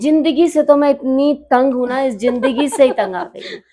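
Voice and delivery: "जिंदगी" with j for z, amused exasperation; mock mispronunciation. Shown as a demonstration. Urdu poet jokes she is fed up with this word, mispronounced. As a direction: joke that this j-sounding "जिंदगी" wears you out. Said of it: "जिंदगी नहीं".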